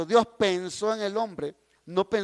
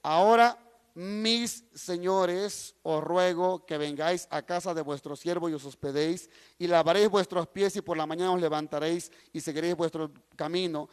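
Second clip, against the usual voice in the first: even, lower-set Bible reading; scripture reading; 5 semitones lower than usual. A narrator's reading. Preacher reading Genesis to the congregation, scripture reading. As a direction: read the verse aloud in a measured public voice. Reads Bible passage aloud.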